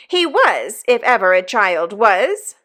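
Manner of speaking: a sister's firm insistence; emphatic. A narrator's reading. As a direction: press it home hard. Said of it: "said my sister most emphatically".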